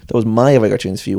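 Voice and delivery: speaking through a yawn; words stretched by a yawn. Real, not acted. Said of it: "I'm yawning".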